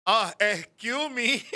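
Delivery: slow, sarcastic "excuse me"; slow sarcastic mother, hammed up; mock dramatic mom. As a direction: drag it out like an offended mother. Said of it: "she starts getting dramatic".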